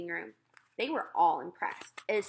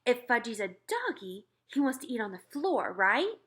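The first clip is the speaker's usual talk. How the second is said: cajoling mother; 3 semitones higher than usual. Acted. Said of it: "she said".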